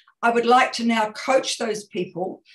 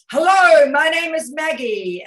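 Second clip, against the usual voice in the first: high booming hello that drops down; loud energetic greeting; 7 semitones higher, 8 dB louder than usual. Shown as a demonstration. Coach Maggie modelling a confident self-introduction, loud. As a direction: greet the room with letter X energy. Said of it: "So I'm going to go".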